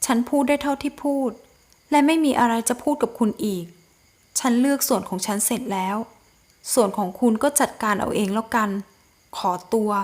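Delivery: quiet, holding back her hurt; cool detached heroine. Acted. Heroine coldly ends the talk with the groom, soft and composed.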